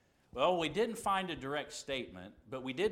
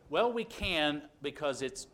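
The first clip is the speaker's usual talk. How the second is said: mock justification; 3 dB louder than usual. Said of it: "turn around and say".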